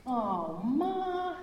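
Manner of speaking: high, drawn-out whine on Ma. A narrator's reading. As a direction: whine it like a kid protesting bedtime. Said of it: "whined Max".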